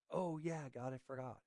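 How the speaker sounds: soft, sheepish mock admission; sheepish aside. Preacher mimicking a believer who forgot God, sheepish and soft. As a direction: drop it quietly, caught out.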